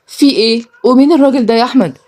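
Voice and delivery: fearful questioning. Acted. Sister seeing her brother bring strangers, mildly fearful. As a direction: ask with a touch of fear. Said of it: "بصت لهم غالية بخوف".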